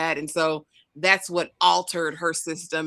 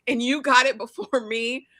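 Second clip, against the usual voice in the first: mock jealous rant; 9 semitones higher, 5 dB louder than usual. Host imitating a jealous girl, high whiny voice. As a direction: whine it high like a jealous rival. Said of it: "When she said".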